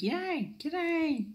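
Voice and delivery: high, drawn-out Australian g'day; broad Aussie g'day. Shown as a demonstration. Teaching viewers the proper Australian g'day. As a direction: sing out a broad Australian greeting. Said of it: "That's how you bloody say it".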